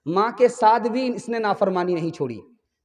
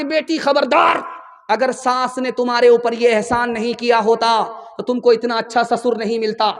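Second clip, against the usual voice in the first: stern motherly warning; 4 semitones higher, 3 dB louder than usual. Acted. Mother warns daughter sternly.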